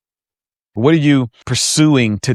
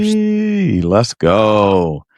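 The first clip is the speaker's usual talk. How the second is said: excited cheer; much slower than usual. Real, not acted. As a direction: cheer it out, hyped up.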